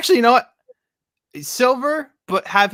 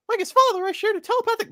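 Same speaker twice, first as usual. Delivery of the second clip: high, squeaky cartoon cricket that slips into Mickey Mouse; failed Jiminy Cricket; faster than usual. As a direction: go much higher, like a tiny cartoon mouse. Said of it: "that's Mickey Mouse. I can't do Jiminy Cricket".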